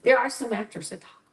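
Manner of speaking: whispered aside; conspiratorial whisper. Real, not acted. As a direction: breathe it out as a confiding whisper. Aside about loud actors.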